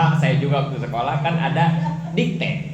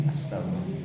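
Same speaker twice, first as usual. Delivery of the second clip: breathy whispered sigh of exasperation; whispered astagfirullah; 10 semitones lower, 11 dB quieter than usual. Pretend. Preacher, exhausted by anger, whispers astagfirullah.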